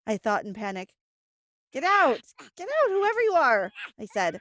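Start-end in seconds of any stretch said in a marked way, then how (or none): 1.7-3.7 panicked shout, louder. Acted. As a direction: yell it out in panic.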